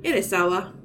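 "Sawa" as SAH-wah; correct Sawa. Shown as a demonstration. Host confirms the actor's real name, "Sawa" as SAH-wah. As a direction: say "Sawa" with an open ah. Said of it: "I said Siwa 'cause I".

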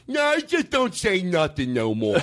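lightly voiced dopey dimwit; mocking dumb Bob. Comedian imitating Bob refusing to apologize, mocking dumb voice. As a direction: play him dim and dismissive. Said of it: "you're putting a dumb voice on it".

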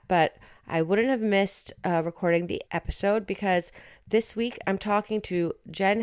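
blocked nose from a cold; stuffed up. Real, not acted. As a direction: talk through a stuffed-up nose. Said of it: "I'm a little bit stuffed up".

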